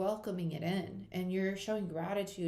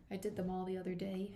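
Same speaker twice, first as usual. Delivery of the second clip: whispered aside; 4 dB quieter than usual. Real, not acted.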